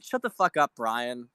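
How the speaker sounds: irritated telling-off, medium volume; annoyed. Real, not acted. Streamer scolds a TV host he despises, irritated. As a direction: tell him off, fed up but not yet yelling.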